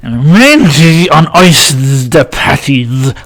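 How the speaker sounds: slow buzzing fly voice; fly answering, slow; fly's voice. Acted. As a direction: drag it out like the old fly. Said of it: "said the blue bottle fly".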